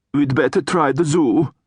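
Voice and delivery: a hint of a grave troll; troll weighing the trouble, mildly grave; lightly voiced troll. Troll consoling the hag about Gladys, lightly grave.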